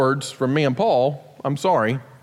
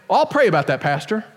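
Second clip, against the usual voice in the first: polite dodge; 5 semitones higher than usual. Retold or imitated. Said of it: "and I get".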